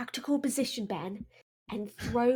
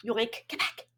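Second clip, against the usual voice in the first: quiet; 6 dB quieter, slower than usual. Acted. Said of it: "Quiet, like, quietly".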